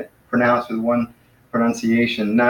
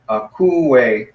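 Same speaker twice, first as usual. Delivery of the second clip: "akouo" drawn out slowly in separate syllables. Shown as a demonstration. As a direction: sound out "akouo" as a-kou-o, slowly. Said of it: "two syllables".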